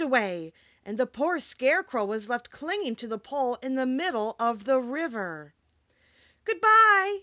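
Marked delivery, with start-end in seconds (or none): 6.4-7.2 high, loud call across the water; called goodbye. Acted. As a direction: shout it after the drifting raft. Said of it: "he called after them".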